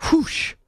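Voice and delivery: breathy whoosh like a swung club; whoosh sound effect. Shown as a demonstration. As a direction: blow out a quick whoosh. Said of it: "maybe we can just make s-, sound effects".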